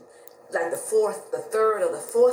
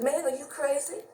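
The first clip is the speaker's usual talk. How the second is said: incredulous; 6 semitones higher than usual. Retold or imitated. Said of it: "I said".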